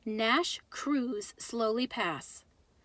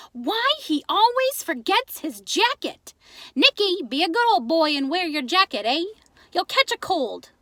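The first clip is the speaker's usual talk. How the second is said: high, loud fretting mom voice; fussing mother; 6 semitones higher, 7 dB louder than usual. A narrator's reading. Ma nags Nicky about his jacket, high loud fretting. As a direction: scold him like a worried Greek mother.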